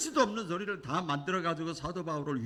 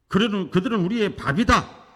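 stronger shout; 4 semitones higher, 6 dB louder than usual. Retold or imitated. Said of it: "강하게 외쳤던".

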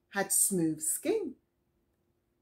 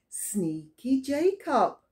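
slow conspiratorial whisper; sneaky whisper; 6 semitones higher, 5 dB louder, slower than usual. A narrator's reading. Teacher telling children about Jacob, conspiratorial whisper. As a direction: whisper it like sharing a secret. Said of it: "teacher comments on character".

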